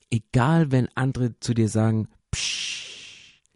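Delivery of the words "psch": drawn-out "psch" shush; hushing. Acted. People silence a would-be leader, hushing. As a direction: cut them off with a shush.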